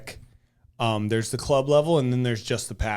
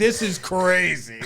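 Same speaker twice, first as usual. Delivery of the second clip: retold disbelief; 5 semitones higher, slower than usual.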